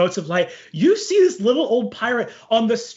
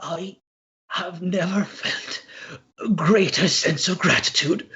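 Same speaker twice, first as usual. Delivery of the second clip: put-on hushed, grateful old-timer with long pauses; angelic pirate spirit. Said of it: "only to you goes".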